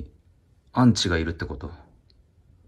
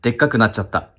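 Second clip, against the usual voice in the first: shy, half-hearted gag delivery; a hint of a comedian's gag line, held back; Magic Mr. Maric gag; 5 semitones higher, 7 dB louder, faster than usual. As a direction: do the gag a bit embarrassed. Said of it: "恥じらいなく、でっかくなっちゃったってやんないと".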